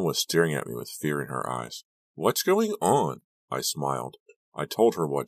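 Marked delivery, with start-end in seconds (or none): 2.1-3.2 worried. A narrator's reading. Frightened friend asks.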